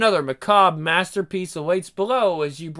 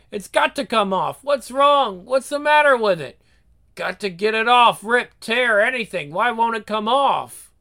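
rising frantic panic; desperate, fraying nerves; growing panic; 5 semitones higher, 5 dB louder than usual. Acted. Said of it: "Ernst felt a growing panic".

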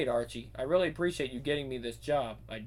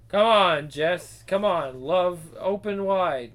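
loud urging; 5 dB louder, slower than usual. Acted. Urging the girl loudly.

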